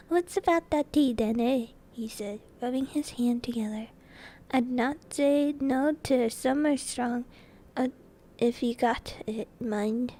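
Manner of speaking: a hint of a hearty giant; lightly voiced giant. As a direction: prompt the host as a big familiar guest.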